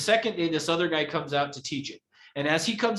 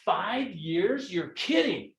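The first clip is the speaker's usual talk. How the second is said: phone surprise; much slower than usual. Shown as a demonstration. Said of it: "if I'm on the phone".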